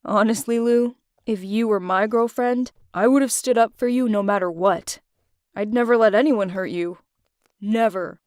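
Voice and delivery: mean every word to her; sincere. Acted. Will confesses protectiveness.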